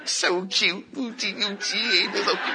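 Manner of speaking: soft, pretend cooing over a baby; baby-talk cooing. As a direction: coo lightly as if to an infant. Cooing over little baby Craig.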